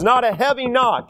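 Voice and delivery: full-voiced emphasis on "heavy knock"; strong, high-energy "heavy knock"; heavy, firm delivery. Shown as a demonstration. Contrasts heavy knock with quiet knock.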